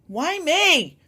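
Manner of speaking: high, loud screaming why me; screamed. Retold or imitated. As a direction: shriek the protest at Dad. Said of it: "'Cause I screamed it".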